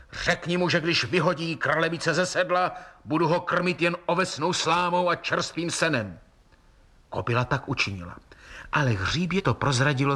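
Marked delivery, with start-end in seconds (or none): 0.1-6.2 giant shouting. A narrator's reading. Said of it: "vykřikl obr".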